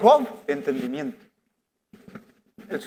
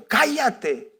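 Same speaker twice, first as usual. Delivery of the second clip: silencing; 5 semitones higher than usual. Retold or imitated. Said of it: "Le vinieron y dijeron".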